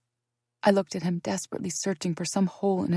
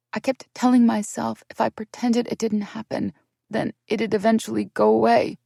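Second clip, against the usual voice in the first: raised, pained pleading; tearful confession; 5 semitones higher than usual. Acted. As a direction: explain through the hurt. Tearful explanation to sister.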